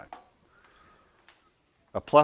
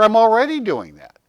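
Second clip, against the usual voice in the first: chirpy; 12 semitones higher, 11 dB louder than usual. Pretend.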